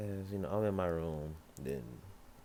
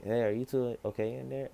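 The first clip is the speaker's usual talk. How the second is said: higher, louder call through a door; Ruby calling; 7 semitones higher, 6 dB louder than usual. Acted. Ruby knocks and calls to them through the door. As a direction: voice Ruby checking from outside.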